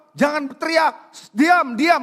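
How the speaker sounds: loud hushing of the blind man; shushing crowd. Retold or imitated. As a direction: tell him to shut up. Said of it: "Sebelumnya orang-orang bilang apa?". (meniru orang banyak yang menyuruh diam)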